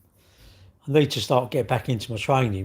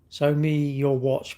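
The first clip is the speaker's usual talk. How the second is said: slow, drawn-out mock request; mocking imitation; 3 semitones higher, much slower than usual. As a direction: drag it out like a pestering creep. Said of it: "What, what, you wanna see my watch?".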